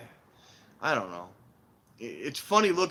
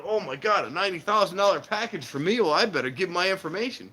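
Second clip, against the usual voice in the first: excited high mock victim; gullible elderly victim; 6 semitones higher, 4 dB louder than usual. Mocking a scam victim, high and excited. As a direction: play the thrilled old mark. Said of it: "Someone's going".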